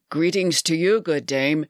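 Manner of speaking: measured, respectful salutation; young apprentice's deferential address; intoned greeting. A narrator's reading. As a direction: lightly intone a formal greeting. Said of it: "he intoned".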